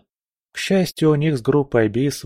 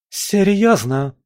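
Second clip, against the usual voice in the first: higher, slow disbelieving cry; incredulous exclamation; 9 semitones higher, slower than usual. A narrator's reading. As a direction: stretch out the disbelief. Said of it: "воскликнула та". (возмущённое недоверие)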